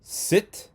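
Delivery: sit said as a questioning option; wrong-answer option. Shown as a demonstration. Teacher offering a wrong choice to the class, questioning. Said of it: "are they".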